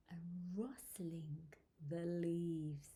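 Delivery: soft, low storybook hush; hushed narration. A narrator's reading. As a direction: let the words rustle quietly.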